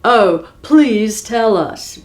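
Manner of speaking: slow, exaggerated polite plea; overly polite giant. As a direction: stretch it out sweetly to sound polite. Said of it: "trying to be polite".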